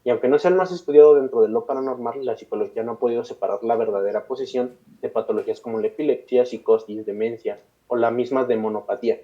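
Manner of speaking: measured read-aloud storytelling; steady podcast narrator reading; scripted documentary narration. A narrator's reading. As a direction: narrate a dark case history from a script. Reads a prepared case account aloud.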